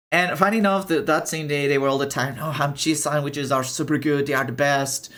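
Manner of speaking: bubbling over with the story; excited. Retold or imitated. Recounting friends raving about sandwiches, excited.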